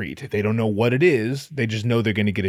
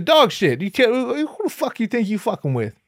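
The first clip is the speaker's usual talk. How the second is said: tough guy; 9 semitones higher than usual. Acted. Opening acted tough-guy line.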